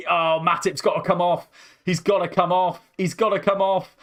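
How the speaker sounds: urgent excited call. Real, not acted. Fan urging a tired defender off.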